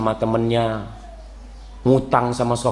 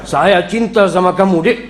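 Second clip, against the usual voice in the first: a gruff, louder love line, half laughing; mock harsh declaration; 4 semitones higher, 5 dB louder than usual. Rough husband telling wife he loves her, mock gruff loudness. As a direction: say sweet words in a rough husband's bark. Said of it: "itu intonasinya".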